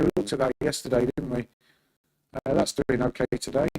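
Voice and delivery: robotic glitchy audio, like a robot. Real, not acted. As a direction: voice coming through like a robot. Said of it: "my voice sounds like a robot".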